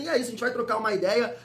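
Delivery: ordinary talk, nothing marked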